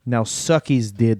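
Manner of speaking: put-on menacing Russian accent command; heavy russian accent menace. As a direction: bark it in a thick Russian accent. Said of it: "this is the accent the performer can do".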